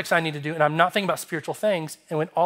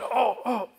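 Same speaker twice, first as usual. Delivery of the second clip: higher-pitched mock groans of pain; acted cramp groan; 6 semitones higher, 4 dB quieter than usual. Acting out painful muscle cramp.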